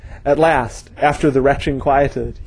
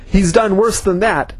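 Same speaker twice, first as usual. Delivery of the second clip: raised, higher angry call; yelled; 6 semitones higher than usual. Acted. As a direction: fling it out as an accusation. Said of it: "yelled Garthal".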